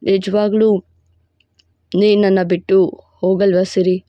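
a proud, possessive lover laying claim; possessive hero voice. Acted. Hero pleads.

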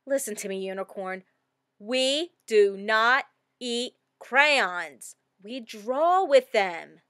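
mild mock-stern lecture; stern scolding. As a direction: lay down the rule like a parent. Child scolds the unicorn.

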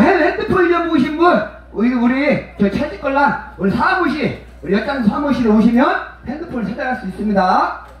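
playful mock broadcast to the crowd; mock announcement. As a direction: announce it like a station loudspeaker. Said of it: "한번 해볼래요?".

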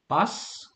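"bus" ending in a drawn-out hissed S; voiceless S. Shown as a demonstration. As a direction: say "bus" slowly with an unvoiced S. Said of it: "One is like a S".

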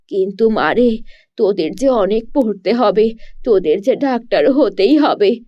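worried mother. Acted.

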